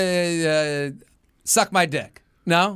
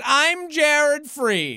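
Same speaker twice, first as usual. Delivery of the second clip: drawn-out intro; 9 semitones higher, much slower than usual. Real, not acted. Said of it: "host sign-off".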